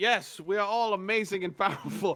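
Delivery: over-the-top, hammed-up grandiose delivery, high pitch. Playing a character greeting a cheering crowd: hammed-up boastful line. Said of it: "ham it up a little bit".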